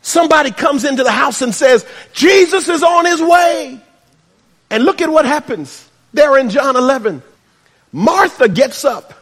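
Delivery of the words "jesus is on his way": excited announcement. Retold or imitated. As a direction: burst in with the news. Messenger bursting into the house.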